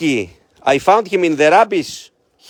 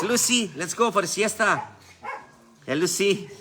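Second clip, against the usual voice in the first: laughing coax; 5 semitones higher, 8 dB quieter than usual. Real, not acted. Coaxing dog, laughing.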